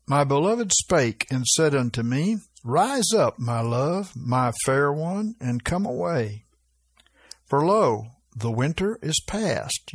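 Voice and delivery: measured, slightly lifted Bible reading voice; scripture reading. Acted. Pastor reading the Song of Solomon to his flock, measured scripture voice. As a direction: read the verse out to the congregation.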